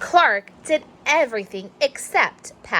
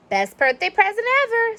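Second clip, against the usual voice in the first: proud boast; 11 semitones higher, faster than usual. Acted. Joey shows off toy.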